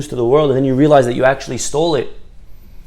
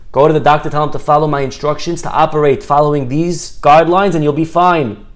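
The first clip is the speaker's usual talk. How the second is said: louder, slightly raised, emphatic directive; confident instructions; 3 semitones higher, 5 dB louder than usual. Acted. Rabbi sending a sick man to his doctor, emphatic confident instructions. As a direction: send him off with firm assurance.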